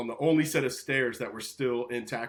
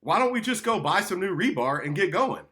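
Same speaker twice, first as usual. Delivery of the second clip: frustrated; 6 semitones higher, 3 dB louder than usual. Retold or imitated. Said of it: "I'm just frustrated going".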